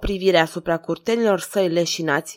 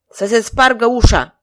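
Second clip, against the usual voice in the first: louder, grim, tight-jawed order; through clenched teeth; 3 semitones higher, 6 dB louder than usual. Acted. King orders the door broken, jaw clenched. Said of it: "cu dinții strânși".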